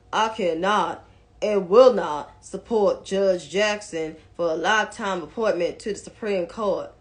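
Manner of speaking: lightly voiced senator, low and measured; Mitch McConnell. Commentator reading the senator's statement, lightly mimicked accent. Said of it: "'cause I'm doing his accent".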